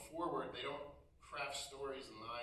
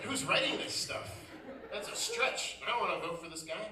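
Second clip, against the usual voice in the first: high, laughing outrage; laughing disbelief; 6 semitones higher, 6 dB louder than usual. Real, not acted. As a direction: crack up at the absurd claim.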